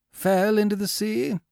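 put-on high, startled older man; startled owner. A narrator's reading. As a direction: ask in quick alarm.

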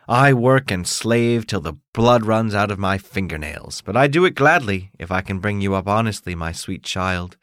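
lightly voiced mother, earnest, slowing at the end; a hint of a proud, tired washerwoman; devoted mother. Mother telling her son she toils for him, earnest.

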